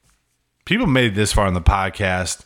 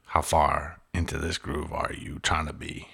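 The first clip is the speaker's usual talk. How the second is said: soft breathy whisper; slow secretive whisper; 3 semitones lower, 8 dB quieter than usual. Pretend. Repeats question, then whispers it.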